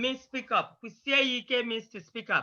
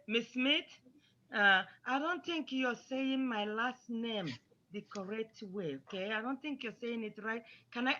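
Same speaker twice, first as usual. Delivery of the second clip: soft, careful, respectful approach to a teacher; gently and tentatively point out the mistake; polite correction; 8 dB quieter than usual. Shown as a demonstration. Pupil politely telling Miss Smith her name is said wrong, soft and respectful. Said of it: "you don't say it in a rude way".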